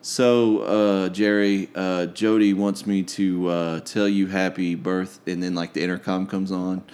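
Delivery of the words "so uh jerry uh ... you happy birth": slow, flat, dispassionate drone; monotone voice. Retold or imitated. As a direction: drag it out with zero enthusiasm. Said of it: "in that monotone voice".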